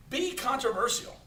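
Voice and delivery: talking with food in mouth; mouth full. Real, not acted. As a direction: say it through a mouthful. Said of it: "I can't spell shit with a mouthful".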